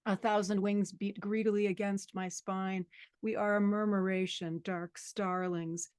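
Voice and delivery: steady, sustained poetry recital; poem reading. Acted. Guest poet reading The Metamorphoses to the audience, steady recital. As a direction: let each image flow evenly into the next.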